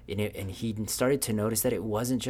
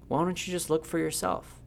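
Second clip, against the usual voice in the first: lightly voiced firefly, pitched up high; higher, lightly acted invitation; firefly's reply; 8 semitones higher than usual. Firefly urging Lewis to look for himself, higher-pitched reply.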